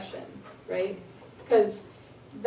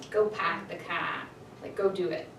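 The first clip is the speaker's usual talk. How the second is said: plain command; 4 semitones lower, 5 dB quieter than usual. Shown as a demonstration. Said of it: "I'm telling somebody to do something".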